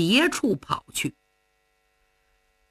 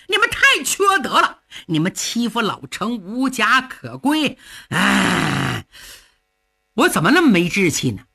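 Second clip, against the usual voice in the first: fuming curse. Acted. Cheng fuming alone outside the camp gate. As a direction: vow revenge through clenched resentment.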